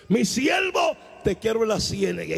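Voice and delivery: the voice of God calling his servant in a dream. Retold or imitated. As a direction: announce it like God's summons.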